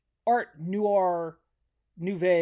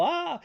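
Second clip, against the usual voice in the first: mock scream; 10 semitones higher than usual. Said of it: "Everyone on the bus is all".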